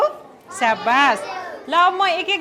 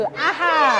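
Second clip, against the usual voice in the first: choral shout; much slower than usual. Real, not acted. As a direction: call the word back in unison. Class repeats word in chorus. (बच्चाहरू सँगै ठूलो स्वरमा)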